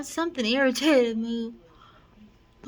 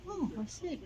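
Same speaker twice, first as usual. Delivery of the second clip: mother impression; 5 semitones higher, 11 dB quieter than usual. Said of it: "She doesn't even talk like that".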